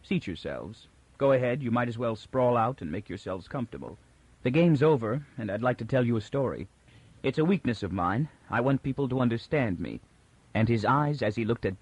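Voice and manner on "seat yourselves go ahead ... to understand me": easy, unhurried, lightly indulgent; a host in command, in no hurry; tolerant. Acted. The unmasked mule to his captives, mildly tolerant. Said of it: "He said tolerantly".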